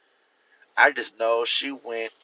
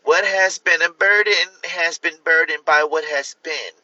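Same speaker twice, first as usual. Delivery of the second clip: lightly voiced politician rambling about bills; Kamala Harris impression; 2 semitones higher than usual. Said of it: "my best impression of Kamala Harris".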